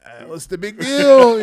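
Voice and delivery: high, slow, loud baffled "what's the big deal"; clueless shrug. Retold or imitated. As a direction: play it totally unimpressed, drawn out. His own clueless reaction retold.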